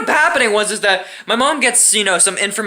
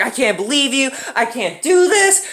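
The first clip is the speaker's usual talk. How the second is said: mock exasperated wail, climbing high and slowing; mom going crazy; 4 semitones higher than usual. Mom losing it at her son, mock despair. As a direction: imitate a mother at her wits' end. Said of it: "she starts going crazy".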